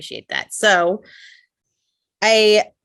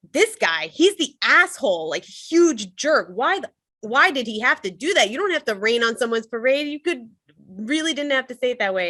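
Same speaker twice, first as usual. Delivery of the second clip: higher, indignant name-calling; venting at him, pitched up and heated; angry at the guy; 5 semitones higher than usual. Retold or imitated. Blaming the customer in her thoughts, higher and indignant. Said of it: "feeling anger kind of shifting towards this guy".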